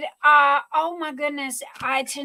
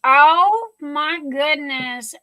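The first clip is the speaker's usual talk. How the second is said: slow, awed oh my goodness; real amazement, drawn out; overwhelmed; 5 dB louder, slower than usual. Real, not acted. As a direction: let the gift take your breath. Opening Mother's Day gift.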